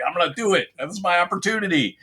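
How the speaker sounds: high-pitched imitation of someone seizing a chance; mock eager showrunner. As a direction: mimic someone set on a pet project. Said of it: "somebody was just like".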